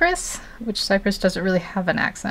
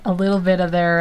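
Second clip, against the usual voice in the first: slipping into a country accent. Shown as a demonstration. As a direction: let a country twang creep in. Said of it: "like that".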